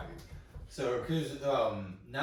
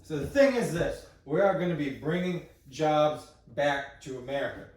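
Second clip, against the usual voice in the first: put-on a light parody of an old politician; easygoing folksy speech voice, lightly done; Blow Jiden; 4 semitones higher than usual. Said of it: "So this is my character".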